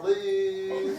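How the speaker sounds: "lu" with a fronted, rounded German ü; big umlaut lu. Shown as a demonstration. Director mocks Texan vowel, "lu" with a big rounded umlaut. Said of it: "the big umlaut".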